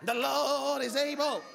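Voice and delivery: drawn-out preacher cadence with long pauses; Black preacher style. Acted. Preacher playfully asking for a word to land, Black preacher style. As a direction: stretch the key words like a Black preacher. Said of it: "help me preach like a black man".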